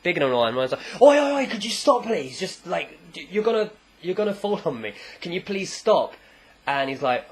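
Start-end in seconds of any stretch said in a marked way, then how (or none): 1.0-6.1 alarmed protest. Retold or imitated. Man about to be fallen on by big guy, mock indignant protest. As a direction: act out someone about to be squashed.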